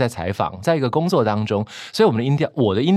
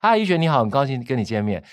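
raised pitch. Shown as a demonstration. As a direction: lift the first words up. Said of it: "而不是". (开头音调提高)

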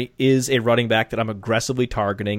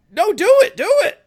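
excited urging; 8 dB louder than usual. Real, not acted. Urging cohost to do impression.

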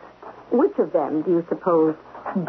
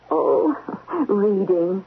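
nervous laugh; much slower than usual. Acted. Caught off guard, laughing nervously.

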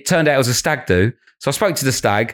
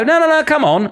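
playful no no no come on to a heckler; teasing coax. Retold or imitated. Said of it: "And I'll go".

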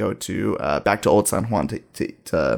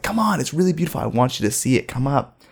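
coaxing; 5 semitones higher than usual. Retold or imitated. Coaxing reluctant girlfriend to climb up.

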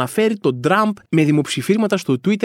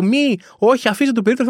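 higher-pitched pretend protester's cry; mock protest yell; 5 semitones higher than usual. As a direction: plead like a chained activist, half-shouted. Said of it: "θα φωνάζω".

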